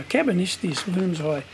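thinking to himself. Retold or imitated. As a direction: mutter it to himself, mulling it over. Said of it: "I'm thinking to myself now".

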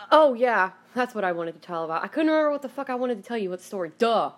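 oh yeah, that's it; sudden remembering. Real, not acted. Remembering the story she meant to tell, excited.

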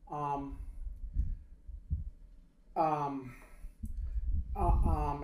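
imitated hesitant ums with long gaps; hesitating. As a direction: stall between each um, searching for words. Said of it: "he was just hesitating".

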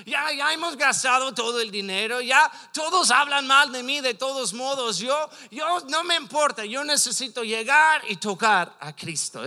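a touch of desperate insistence; acted desperation. Preacher voices someone who has spent everything, mildly desperate. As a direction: voice someone with nothing left to lose. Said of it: "Esta es desesperación".

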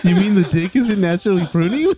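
barely holding it together; laughing. Real, not acted. Echoing while laughing.

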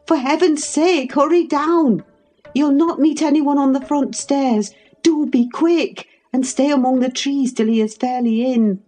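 high, alarmed urging; urgent exclamation. A narrator's reading. Housekeeper hurries the lover out before master arrives, urgent. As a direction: urge him away, pitched well up. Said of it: "I exclaimed".

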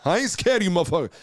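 light swaggering imitation; retelling Bernie Mac's set, mild imitation. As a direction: say it like Bernie to the crowd. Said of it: "he comes out and he goes".

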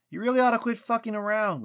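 high, loud, frustrated outburst; angry yell. A narrator's reading. Lucas fed up with the silent tree, yelling angrily. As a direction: shout it at someone refusing to come out. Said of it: "Lucas yelled".

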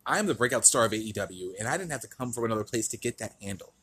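smug wrestling promo voice; cocky heel promo, lightly voiced; MJF impression. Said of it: "Let's get into the promo that he cut".

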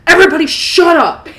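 hospital doctor's shout. Acted. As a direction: shout over the chaos like a TV doctor. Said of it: "the one doctor that goes".

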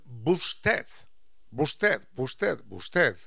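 "busted" said like usted with a b; "busted" repeated as the word erodes; "busted" as a rural form of usted; worn-down busted. Shown as a demonstration. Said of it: "fue derivando en".

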